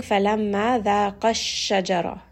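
ذَاقَ run straight into الشَّجَرَةَ, no long alif between; words joined. Shown as a demonstration. Teacher showing the joined reading, ذَاقَ linked into الشَّجَرَةَ. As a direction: join ذَاقَ الشَّجَرَةَ into one, holding the doubled sh. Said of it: "you are combining it with the sheen".

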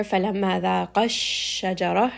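ذَاقَ joined to الشَّجَرَةَ with a small lift at the join; nabr emphasis. Shown as a demonstration. Teacher reading the verse, light nabr on ذَاقَ. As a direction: give the end of ذَاقَ slight pressure into الشَّجَرَةَ. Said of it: "raise the voice just a little bit".

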